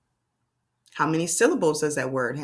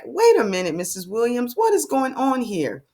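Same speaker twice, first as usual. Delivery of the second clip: puzzled pupil; 5 semitones higher than usual. Pretend. Teacher voicing what pupils are wondering, mock puzzlement. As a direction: play a baffled child stopping the teacher. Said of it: "you're probably wondering".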